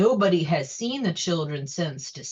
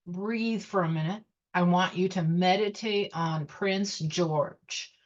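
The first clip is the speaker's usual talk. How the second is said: guided meditation. Acted. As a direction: guide them gently into stillness. Leads a meditation.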